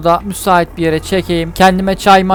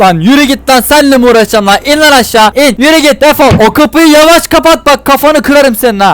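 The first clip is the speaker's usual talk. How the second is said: raised-pitch scolding; angry dismissal; 4 semitones higher than usual. Acted. Driver kicks a passenger out of the car, angry. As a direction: send them packing, pitched up.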